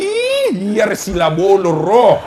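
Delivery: mocking high "Ih" then slow teasing jab. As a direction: tease the husband slyly. Wife teasing husband. (istri menggoda suaminya dengan nada mengejek)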